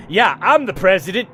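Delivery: sarcastic joke. Pretend. Player jokes sarcastically at table.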